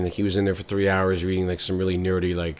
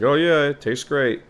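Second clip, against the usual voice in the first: slow, higher forced compliment; fake enthusiasm; 7 semitones higher, 4 dB louder, slower than usual. Boyfriend lying to his girlfriend, slow and forced. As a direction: pretend it tastes great.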